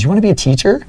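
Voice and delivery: imitating a startled manager; surprised question. Manager catching him practicing at night, mock surprised.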